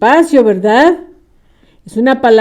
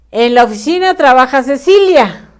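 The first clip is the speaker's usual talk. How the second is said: En la oficina trabaja Cecilia rushed as one lump with no gaps; fast, run-together wrong reading; all crammed together; 3 semitones higher, 4 dB louder, faster than usual. Shown as a demonstration. Teacher showing pupils the crammed wrong reading, fast and run together. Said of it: "Todo amontonado".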